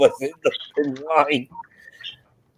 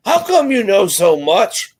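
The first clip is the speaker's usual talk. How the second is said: higher-pitched mock curiosity; retold puzzled question; 7 semitones higher, 3 dB louder than usual. Passengers asking their local guide, imitated amazed curiosity. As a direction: lift the pitch as an amazed tourist would. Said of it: "They're like".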